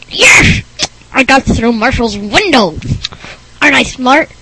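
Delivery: oddly voiced, triumphant goofball; the speaker's strange voice. Goofball boasting he got through the window, strange voice. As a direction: gloat in a weird character voice. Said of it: "thinks he talks strange".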